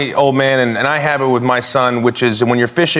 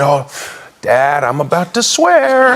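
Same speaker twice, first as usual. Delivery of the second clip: put-on crying kid; 2 semitones higher, slower than usual. Son tells dad he's about to swear, slow and tearful. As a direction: drag it out like a sniffly child.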